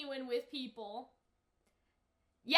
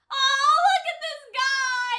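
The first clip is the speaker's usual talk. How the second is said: louder, slower, laughing delight; excited laugh; 5 semitones higher, 8 dB louder, slower than usual. Real, not acted. Reactor spots a favourite character, laughing. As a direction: point him out with glee.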